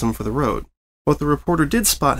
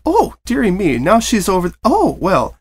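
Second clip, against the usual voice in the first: higher, louder, losing track of someone; a baker fussing as the filly darts off; flustered mare; 9 semitones higher, 5 dB louder than usual. Acted. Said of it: "giggled with the slightest hint of strain".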